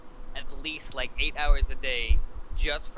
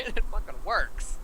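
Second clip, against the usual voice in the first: laughing; 5 semitones higher, slower than usual. Real, not acted. Laughs at weird strategy.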